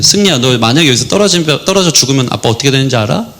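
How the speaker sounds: earnest plea to a son, sinking low and slowing; heartfelt. Retold or imitated. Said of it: "제가 진심으로 그때 한 말이". (진심 어린 낮은 목소리로 아들에게 하는 말)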